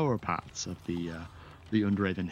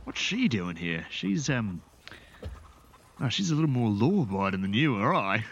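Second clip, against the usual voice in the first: higher, jovial burly dwarf; 5 semitones higher than usual. Acted. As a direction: boom it out like a friendly dwarf. GM voices the dwarf.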